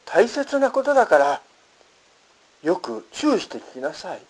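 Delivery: quoted appeal, 大切なことだから pitched high and firm; emphatic urging. Retold or imitated. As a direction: lift 大切なことだから high, then settle on 聞きなさい. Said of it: "強調しておっしゃっておられる".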